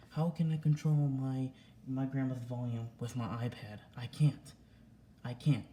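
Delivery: angry protest. Real, not acted. Angry rant about dad's accusation.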